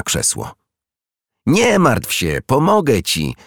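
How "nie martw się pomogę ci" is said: higher-pitched, gently encouraging reassurance; comforting. A narrator's reading. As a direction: lift the voice to console a friend. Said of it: "Jerzyk zaczął pocieszać przyjaciółkę". (pocieszająco, wyższym głosem)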